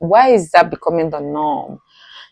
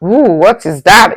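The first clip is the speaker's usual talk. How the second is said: surprised; 3 semitones higher, 7 dB louder than usual. Real, not acted. Reading shocking comments.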